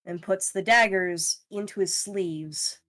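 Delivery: low, measured scene-setting; game master narration. A narrator's reading. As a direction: let the tension settle as you narrate.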